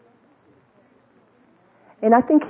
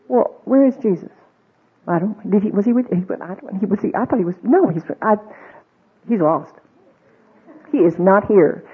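flustered parent. Acted. Parents realize Jesus missing.

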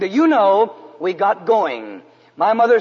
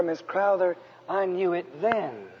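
soft whisper; 4 semitones lower, 11 dB quieter than usual. Retold or imitated. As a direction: tell her gently, almost under your breath. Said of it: "And I whispered to her".

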